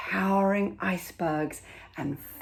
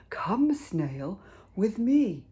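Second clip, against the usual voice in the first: rising to higher and louder on me; whale's invitation; 4 semitones higher, 3 dB louder, slower than usual. Acted. Whale inviting the snail aboard, rising and brighter. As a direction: call the snail over, brightening at the end. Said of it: "he said to the snail".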